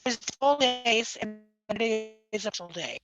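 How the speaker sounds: underwater. Real, not acted. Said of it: "it kinda sounds like you're underwater".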